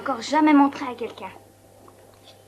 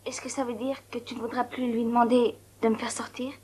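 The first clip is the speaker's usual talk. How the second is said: hushed, anxious whisper; soft secretive whisper; 2 semitones lower, 5 dB quieter than usual. Real, not acted. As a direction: whisper so no one overhears. Secret talk in hospital.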